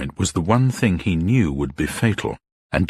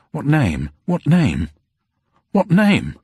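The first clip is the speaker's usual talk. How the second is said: each repeat higher and louder, climbing to near-shout; rising panic; 9 semitones higher, 4 dB louder, slower than usual. A narrator's reading. Campion's mind races for a false name, panic building to a cry.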